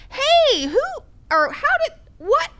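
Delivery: high-pitched, imitated family questioning; mock pestering questions. Relatives asking questions at grandmother's bedside, mock high-pitched pestering.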